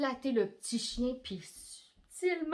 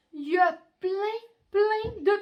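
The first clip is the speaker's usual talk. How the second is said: excited reveal; 9 semitones higher, 8 dB louder than usual. Acted. Grand reveal.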